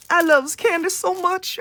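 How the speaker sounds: playful kiddie voice about candy; cutesy voice. Pretend. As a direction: gush it like a little kid. Repeats candy line, put-on voice.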